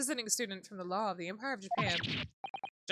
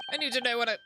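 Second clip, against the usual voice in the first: put-on Scottish accent; 3 dB louder than usual. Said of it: "What is this accent?".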